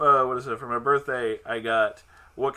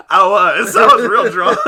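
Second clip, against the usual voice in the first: high laughing confession; laughing hard; 7 semitones higher, 16 dB louder, slower than usual. Real, not acted. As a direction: laugh through the words. Laughing admission of drunkenness.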